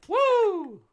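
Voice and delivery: very high, loud wrestler's "woo"; Ric Flair. Retold or imitated. Host mimicking a famous wrestler's catchphrase, a loud high whoop. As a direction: whoop it out piercingly, in imitation. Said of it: "That's Ric Flair".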